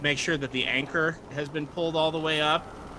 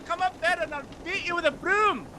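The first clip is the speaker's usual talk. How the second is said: high, screechy threat; high-pitched scolder. Acted. Cook threatening someone below with a broom, high scolding voice.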